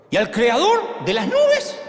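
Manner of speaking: slow, high, ringing proclamation; preaching shout. Acted. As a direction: cry it out slowly to the crowd. Preacher builds to climax. (proclamación a gritos, lenta y aguda)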